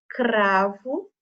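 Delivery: "cravo" with the R pushed out; forced R. Shown as a demonstration. Teacher helping pupils notice the sound, forced R in "cravo". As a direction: lean hard on the R of "cravo". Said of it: "dando essa forçadinha no R".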